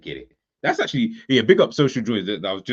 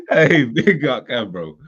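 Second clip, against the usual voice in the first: slow loud shout-out; 3 semitones higher, 8 dB louder, slower than usual. Real, not acted. Shout-out after laughing.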